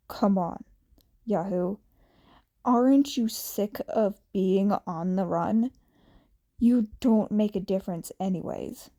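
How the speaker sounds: a hint of a sneering teen baiting his target; taunting Shinso. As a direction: rival jeering at Izuku while they fight. Shinso taunts Izuku mid-fight.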